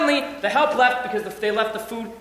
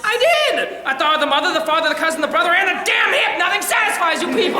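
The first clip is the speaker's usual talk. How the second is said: exasperated outburst; 4 semitones higher than usual. Acted. Pushed to invent more excuses.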